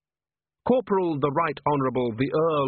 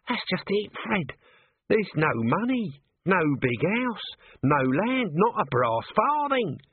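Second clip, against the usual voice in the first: higher, aggrieved little man; lightly voiced self-pitying corporal; 8 semitones higher, slower than usual. Nobby complaining to Colon about his lot, higher and aggrieved. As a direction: feel hard done by, a touch higher.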